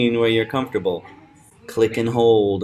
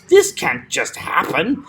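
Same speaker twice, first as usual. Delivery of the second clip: higher "happen", punched on "hap"; acted protest peaking on "happen"; stress on HAP; 4 semitones higher, 3 dB louder than usual. Shown as a demonstration. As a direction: hit the first syllable of "happen". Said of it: "he stresses the hap".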